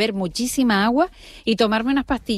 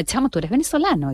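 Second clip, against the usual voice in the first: playful Venezuelan lilt, pitched up; Venezuelan accent; 4 semitones higher than usual. Acted. Customer teasing a Venezuelan waiter, Venezuelan accent. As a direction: imitate a Venezuelan speaker chatting. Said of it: "que me atienda un camarero venezolano".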